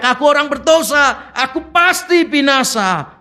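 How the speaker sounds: Isaiah crying out. Retold or imitated. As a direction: cry out in dismay. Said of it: "Dia cuma berteriak".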